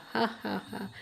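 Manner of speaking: soft acted "ha, ha, ha"; quiet, spaced-out villain chuckle; gloating laugh. Schemer gloats alone after his trick.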